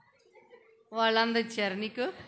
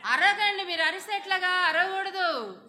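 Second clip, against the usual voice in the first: higher, exasperated telling-off, last word slowed; scolding the class; 5 semitones higher than usual. Real, not acted. Teacher telling shouting children to stop shouting, higher exasperated scold. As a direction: rein in a noisy room, pitch up and stretch the last word.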